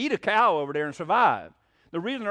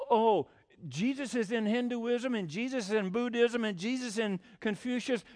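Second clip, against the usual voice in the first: mocking their claim; 3 semitones higher, 3 dB quieter than usual. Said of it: "They'll say".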